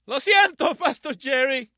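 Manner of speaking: high, very loud apology; loud call-out. Real, not acted. Preacher calls a joking apology to his pastor, loud call-out. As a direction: call it out high over the crowd. Playful aside called to a pastor.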